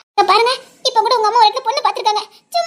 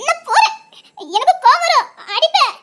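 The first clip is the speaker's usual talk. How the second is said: laughing protest; 5 semitones higher, 3 dB louder than usual. Acted.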